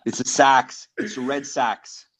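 imitating a Boston sports fan's accent. Shown as a demonstration. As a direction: do a hammed-up East Coast Boston accent.

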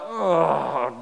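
drawn-out reluctant "ugh"; grudging groan. Retold or imitated. Son slowing as he nears dad, grudging groan. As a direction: imitate a reluctant kid's groan. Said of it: "grudging walk".

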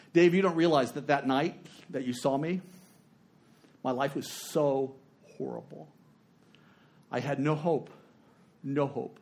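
somber letter reading. Retold or imitated. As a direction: read her despair aloud, understated. Reading a woman's despairing letter aloud.

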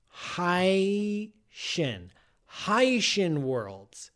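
Hycean said HY-shun, drawn out; correct Hycean. Shown as a demonstration. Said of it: "supposed to be pronounced Hycean".

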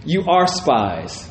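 slow, quiet, cold accusation; mock harsh accusation. Joseph retold accusing his brothers, slow and hard. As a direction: lay the charge down slowly and coldly. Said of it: "He answers them harshly".

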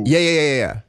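excited loud insisting; emphatic. Real, not acted.

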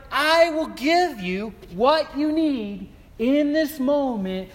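a hint of a booming divine voice; lightly voiced God. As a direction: proclaim it as God's promise. Voicing God's promise.

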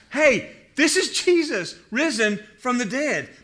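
light up as you realize who it is; excited recognition. Acted. Mary recognizing Jesus at the tomb, excited.

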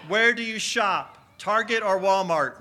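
loud quiz-host call to a roomful; calling out to crowd. Real, not acted. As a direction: throw the question out over the crowd. Calling quiz questions to the congregation.

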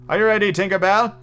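high, hearty call. A narrator's reading. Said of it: "he called out".

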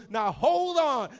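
high, loud, stretched-out interruption; drawn-out mock command to wait; halting call. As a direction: imitate a brother stopping the race, slowly. Brother halts the start.

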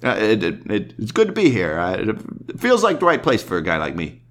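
lightly voiced Brian Regan, humble and halting; a hint of shy comedian stammering through; imagined interview. Host greets guest, then a touch of shy halting comedian. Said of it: "so if I interviewed him, I'd be like".

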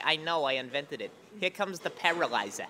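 lightly voiced friend impression; Tom Dustin. Friend announcing his pool dive, lightly imitated voice. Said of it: "I do Tom Dustin".

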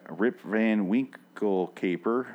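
slow, careful title; careful slow reading of a tricky title; said very slowly. Real, not acted. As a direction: spell out each word slowly so you don't trip. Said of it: "I finally said it very slowly".

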